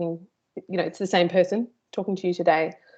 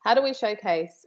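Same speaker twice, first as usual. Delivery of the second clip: put-on American accent; 3 semitones higher than usual. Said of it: "I have to use an American accent when I do that".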